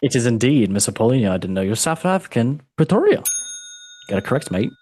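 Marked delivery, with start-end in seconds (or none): 2.8-3.2 excited reveal. Pretend. Revealing the correct answer. 3.2-4.7 whispered aside. Pretend. Aside after the reveal.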